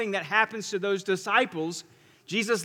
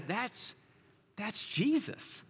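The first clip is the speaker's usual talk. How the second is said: hushed recognition; 2 semitones higher, 9 dB quieter, much slower than usual. Retold or imitated. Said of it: "John, the disciple ... says".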